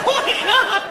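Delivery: very high, mock-tearful exclamation; exasperated squeal. Acted despair at relentless teasing.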